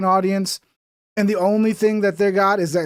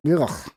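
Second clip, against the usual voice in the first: throaty groan of disgust; disgusted ugh; 3 semitones lower, 3 dB quieter than usual. Real, not acted. Disgust at rubbery chicken.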